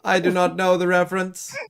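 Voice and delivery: flat robotic monotone. Pretend. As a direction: talk like a robot, every word even. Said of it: "did you speak like a robot?".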